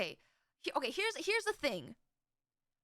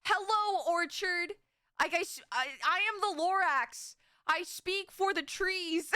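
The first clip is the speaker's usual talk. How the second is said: park ranger voice. Pretend. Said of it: "I would feel like some sort of park ranger".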